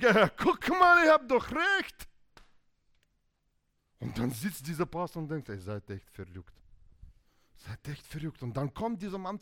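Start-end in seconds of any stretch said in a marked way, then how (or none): 0.0-2.1 high, loud, drawn-out gloat; hammed-up triumphant voice; gloating winner. Winning hand gloats, acted. 5.5-8.4 soft aside of disbelief; acted pastor quietly judging the couple; bemused inner thought.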